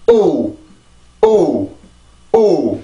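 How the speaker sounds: 오 alone with a falling stressed beat; stressed vowel. Shown as a demonstration. Teacher repeats the stressed syllable sound, stressed vowel. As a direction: hit each 오 and let it fall. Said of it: "지금 내는 그 소리대로 내면 돼요".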